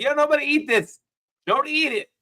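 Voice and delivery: high mock yell to everyone; retold warning. Retelling warning others at restaurant, high mock yell. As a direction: warn the table, hammed up. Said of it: "I was like".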